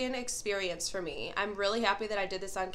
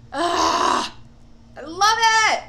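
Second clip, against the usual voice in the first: excited squeal; 9 semitones higher, 12 dB louder, slower than usual. Real, not acted. Reacting to mascaras on camera.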